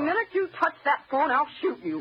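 fast, cracking threat; tearful threat. Acted. Wife warns husband off the phone, fast and tearful. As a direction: rush the warning through tears.

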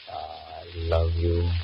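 tender "I love you". Acted. Johnny tells Patricia "I love you" against his will, tender. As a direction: breathe out "I love you" as if meant. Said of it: "why did I say I love her".

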